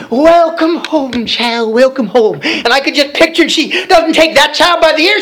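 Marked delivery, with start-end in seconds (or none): 0.1-2.4 slow, drawn-out tender welcome home. Retold or imitated. Preacher voicing Mountain Mama greeting a good child, tender and slow. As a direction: ease the words out like taking a child by the hand. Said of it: "And she'd say".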